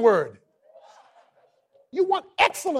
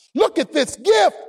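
excited; 5 semitones higher, 4 dB louder than usual. Retold or imitated. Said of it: "And you say".

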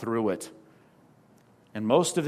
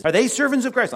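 much higher and louder, servants hit hard; emphatic challenge; 9 semitones higher, 5 dB louder than usual. Shown as a demonstration. Paul challenging rival leaders, high and loud. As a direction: fling the question at the rivals.

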